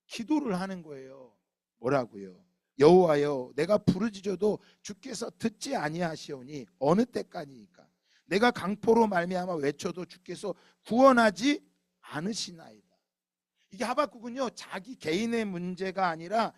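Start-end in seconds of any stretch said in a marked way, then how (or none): 2.8-12.8 부르짖는 기도. Acted. 하박국의 부르짖는 기도 인용.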